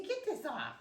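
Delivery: playful high pet voice; speaking for puppy. Pretend.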